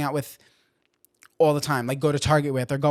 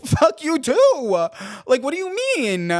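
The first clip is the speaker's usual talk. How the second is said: higher and louder, slow, laughing through it; laughing mock outrage; 11 semitones higher, 6 dB louder, slower than usual. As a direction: crack up while yelling it back in fake outrage. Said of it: "'cause I get mad".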